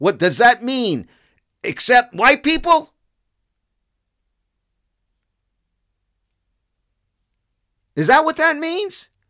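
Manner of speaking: furious, loud, rising, pissed-off delivery. Speaking to folks about the mayor of chicago, pissed off. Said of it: "you can hear it in my voice. I am pissed off".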